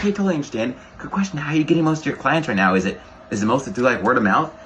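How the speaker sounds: high, bright, eager pitch; confident and upbeat. Shown as a demonstration. Coach demonstrating a reply to not interested, upbeat. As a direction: brush off the no with energy. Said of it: "very confident because that's what's gonna close".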